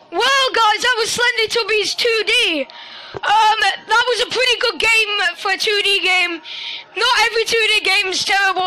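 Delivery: excited outro. Real, not acted. Relieved outro after scare.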